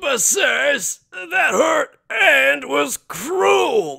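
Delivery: whiny complaint. Acted. Ganju whining to his sister after her kick. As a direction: whine like a kicked little brother.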